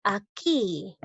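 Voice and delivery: "Aquí" with a long, stressed QUÍ; stress on last syllable. Shown as a demonstration. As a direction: stretch the final QUÍ of "Aquí". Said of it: "la sílaba tónica recae en la sílaba".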